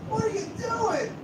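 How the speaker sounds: high, slow mock yell; imitating Eric's yell. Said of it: "an old Eric reference".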